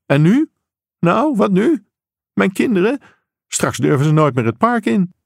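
high-pitched exasperated demands; acted parental outrage, pitched high; agitated father. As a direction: cut in with indignant, pressing questions. Upset father cuts officer off.

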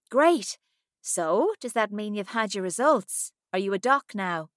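high, loud chatty friend; a lively friend calling from the US; Millie. Acted. Millie voiced in dialogue.

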